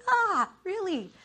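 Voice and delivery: high, drawn-out groan of disbelief; mock exasperation. Wife reacting to husband's mess, exasperated. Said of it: "I am so mad at him".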